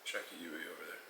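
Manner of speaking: low, soft imitated Australian accent; subdued Australian accent attempt. Shown as a demonstration. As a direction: try Australian slang in an Australian accent, quietly. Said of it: "Should we try each other's accents?".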